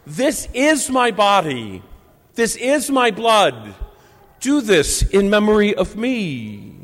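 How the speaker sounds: slow reverent words; solemn and slow. Acted. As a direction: speak each phrase slowly and solemnly.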